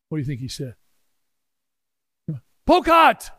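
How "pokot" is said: high, loud triumphant reveal; excited shout. Real, not acted. Preacher revealing the tribe he prayed for, shouting it out. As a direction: bang out the name like a punchline.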